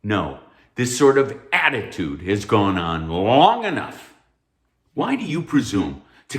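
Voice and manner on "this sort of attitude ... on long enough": stern anger. Acted. Professor loses patience.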